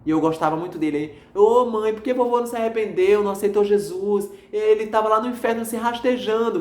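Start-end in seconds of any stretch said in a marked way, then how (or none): 1.3-6.6 higher, pleading voice of grief; a touch of a sob in a raised voice; retold tearful plea. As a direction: relive crying over grandpa to mom on the phone. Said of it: "chorando, chorando".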